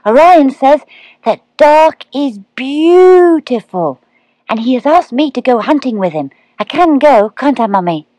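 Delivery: a thrilled owlet who can't wait; little owl excitedly agreeing to go hunting; excited baby owl. A narrator's reading. Plop begging his mother.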